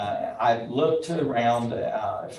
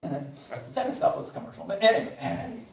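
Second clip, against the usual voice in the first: laughing aside; 5 semitones higher, 4 dB quieter than usual. Real, not acted. Laughs at own book plug.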